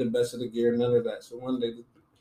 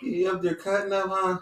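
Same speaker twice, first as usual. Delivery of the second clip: lightly voiced smooth-talking dad, a touch higher; 7 semitones higher than usual. Dad on the phone to his son at school, lightly voiced smooth calm. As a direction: play it cool and easy like a father who's not mad yet. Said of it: "He hit me with the smooth".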